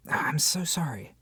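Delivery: whispered apology, caught off guard; hushed fluster. Acted. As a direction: breathe a quick embarrassed sorry. Realizes she never asked the name.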